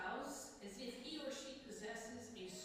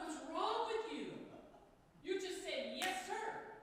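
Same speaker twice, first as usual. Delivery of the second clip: half-hearted frustrated retort, a bit louder; mock exasperation; 6 semitones higher, 3 dB louder than usual. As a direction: replay the irritation lightly. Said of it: "it frustrated the heck out of me".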